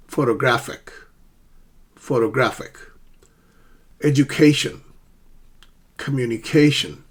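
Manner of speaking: careful models: photo-GRAPH-ic in "Photographic", edu-CA-tion in "Education"; repeat-after-me delivery, stressing CA in "Communication"; secondary stress drill. Shown as a demonstration. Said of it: "pronounce these words after me".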